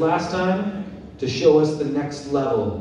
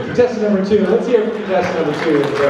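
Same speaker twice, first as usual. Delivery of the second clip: loud hype-man crowd call; rally the crowd for applause; booming pumped announcer; 5 semitones higher, 4 dB louder, much faster than usual. Acted. Host calls for applause.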